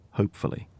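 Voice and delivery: whispered, doubtful aside. A narrator's reading. Narrator casting doubt on the plan, whispered. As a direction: breathe it under the breath, unconvinced.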